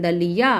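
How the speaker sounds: दलिया with an open, firm final "yaa"; forceful long ending. Shown as a demonstration. Teacher repeating the example for learners, forceful long ending. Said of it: "य में आ की मात्रा लगी है तो जोर से बोल रहे हैं".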